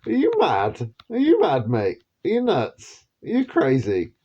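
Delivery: mock the UK with exaggerated high disbelief. The world asking the UK, in mock high-pitched disbelief. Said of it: "as if to say".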